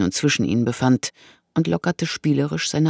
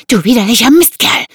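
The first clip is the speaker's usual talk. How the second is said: high, loud outrage; venomous insult; 10 semitones higher, 11 dB louder than usual. A narrator's reading. Woman curses the man gripping her wrist, venomous. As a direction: spit the insult at him. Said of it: "zischte sie".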